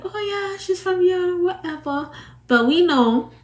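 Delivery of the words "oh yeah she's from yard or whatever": higher Jamaican patois voice; Jamaican accent. Retold or imitated. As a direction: mimic the locals in Jamaican patois. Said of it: "Everybody's like".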